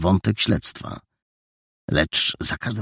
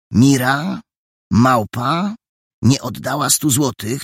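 excited quoting; 8 semitones higher, 3 dB louder than usual. Acted. Quoting as code example.

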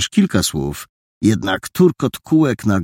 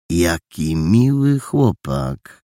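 gentleman praising; 5 semitones higher, much slower than usual. Acted. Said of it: "powiedział Tyrolczyk".

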